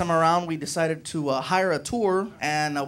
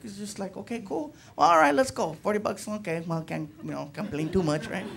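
mock flat, much softer unenthused guide; unenthusiastic; 5 dB quieter than usual. Tour guide resigned to a forty-dollar job, mock unenthused. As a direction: lightly mimic a guide who can't be bothered. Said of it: "doesn't sound really enthusiastic".

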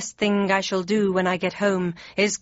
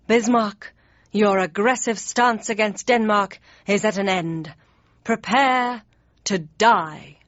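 Hamlet's threat; slower than usual. Acted. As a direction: fling the threat at Bismarck. Hamlet draws sword, threatens.

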